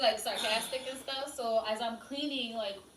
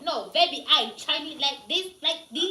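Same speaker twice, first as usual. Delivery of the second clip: a light mock heavy Asian accent, a bit louder; imitating heavy Asian accent; 4 semitones higher, 6 dB louder than usual. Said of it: "she's like".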